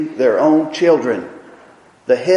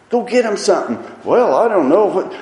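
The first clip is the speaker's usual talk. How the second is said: frustrated; 4 semitones higher, 5 dB louder than usual. Retold or imitated. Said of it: "He got frustrated".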